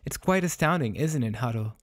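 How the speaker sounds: lightly acted amazement; mild astonishment. Young master to sibling about the dog, mild astonishment.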